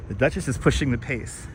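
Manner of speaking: breathless from the uphill ride; winded, catching breath between words. Real, not acted. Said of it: "I'm a little out of breath right now".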